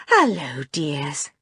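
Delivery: affectionate mother's hello; smiling greeting. A narrator's reading. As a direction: greet the children with a smile. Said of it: "she said, smiling".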